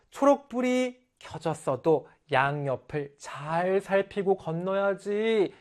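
slow, drawn-out caring reminder; mildly anxious, lingering caution; worried mother. Shown as a demonstration. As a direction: stretch it gently with motherly concern. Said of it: "주아를 걱정하는 마음으로".

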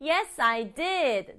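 slow, assured reply; confident. Acted. Child answering mother's homework check, confident. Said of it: "당당하게 뭐라고요?".

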